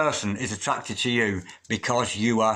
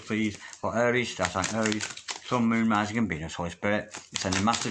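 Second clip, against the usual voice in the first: murmured invocation. Acted. Repeated invocation.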